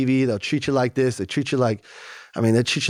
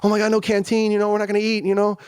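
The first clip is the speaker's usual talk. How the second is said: high mock whine about canteen; lightly voiced whining inmate, pitched higher; half-hearted imitation of scared inmates; mocking inmates' panic; 4 semitones higher than usual. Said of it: "mock of guards' threats".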